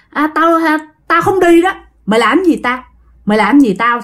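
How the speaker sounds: taunting spirit. Acted. Spirit refuses to leave.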